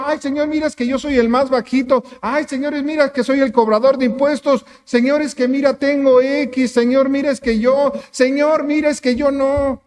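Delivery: hammed-up poor-me plea; whiny excuse. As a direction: beg the Lord with a mock whimper. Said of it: "No le dijo".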